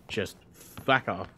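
slow, weary stern fuck off. Retold or imitated. Player telling enemies off, slow and stern. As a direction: drag it out firmly. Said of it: "give them a stern-voiced".

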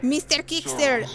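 ordinary delivery

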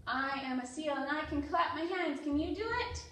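lively picture-book read-aloud for toddlers; reading to children. Acted. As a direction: read it out to little kids with energy.

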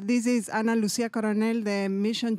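raising the voice for the mic. Real, not acted. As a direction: project so the room hears you. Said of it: "Can you speak louder".

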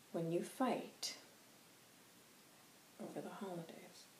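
lightly voiced wise elder addressing us; solemn spirit elder. White Hawk gently warning adult children, solemn.

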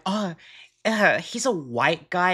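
casual, teasing "Oh" and an easy shrug; demoing the harmless way to say it; light playful. Shown as a demonstration. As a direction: say it like a harmless little joke. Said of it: "there's a difference there".

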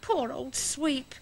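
soft, slow pity; sympathetic. Acted. Sympathy for the frightened dog.

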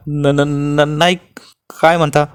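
son-in-law facing the axe, stammering in fright; frightened stammer. Acted. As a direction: stumble over the words in fear. Terrified man stammers before bandit.

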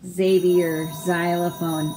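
"Xavier, xylophone" each starting with a Z sound. Shown as a demonstration. Reader showing how X sounds in "Xavier, xylophone", X as Z. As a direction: begin "Xavier" and "xylophone" on a buzzing Z. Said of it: "the X sounds like a Z".

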